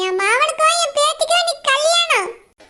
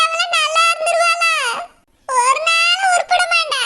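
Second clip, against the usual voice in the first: crying curse. Acted. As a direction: curse her through sobs. (பேத்திக்காக அழுதுகொண்டே சாபம் விடும் பாட்டி, அழுகைக் குரலில்)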